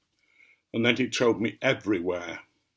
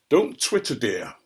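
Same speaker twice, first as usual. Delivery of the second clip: teasing. Real, not acted. Husband teasing wife who giggles.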